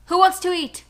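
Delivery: high, loud doggy-talk voice; cooing to the dog about food; pet talk voice. Acted. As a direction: call the dog to dinner in a sing-song.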